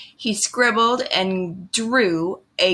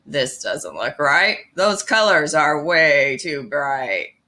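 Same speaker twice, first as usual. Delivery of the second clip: lower, grumbling toad voice; Grumpy Toad grumbling at Pete's picture, in a lower grumpy voice; 5 semitones lower than usual. Acted. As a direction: grouse like a sulky toad. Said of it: "Grumpy Toad said".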